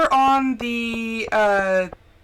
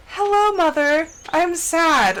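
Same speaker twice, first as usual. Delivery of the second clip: higher, louder mock-pitiful pet voice; mopey dog voice; 6 semitones higher, 4 dB louder, slower than usual. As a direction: whine it like a sad puppy. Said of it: "look at me like".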